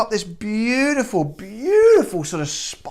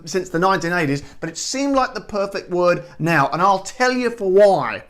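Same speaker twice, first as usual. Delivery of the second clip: put-on a light Australian accent held through the chat; 3 dB louder than usual. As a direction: talk like a cheerful Aussie host, lightly done. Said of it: "I'll drop the Australian accent for a second".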